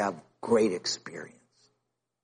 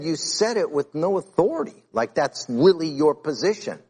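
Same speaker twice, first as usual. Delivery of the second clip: heated; 4 semitones higher than usual. Retold or imitated. Pastor scolding the church man.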